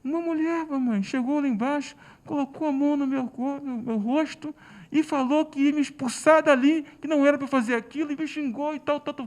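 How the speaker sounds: a hint of a crying son telling his mother; child's voice. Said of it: "o João sobe correndo, triste, chorando".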